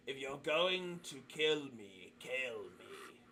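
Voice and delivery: slow, resigned creature voice, dropping away; odd Kenku voice. Acted. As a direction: let the last words sink away slowly. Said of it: "Why do you sound like that?".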